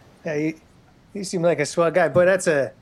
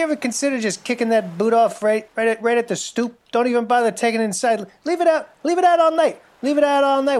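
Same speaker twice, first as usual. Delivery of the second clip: higher, building urging pitch; excited; 5 semitones higher than usual. Acted. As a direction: talk him into it, more eager. Pitching an idea with rising excitement.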